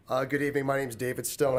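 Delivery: raspy from a cold; sick, scratchy voice; hoarse sick voice. Real, not acted. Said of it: "excuse my voice, I'm a little sick".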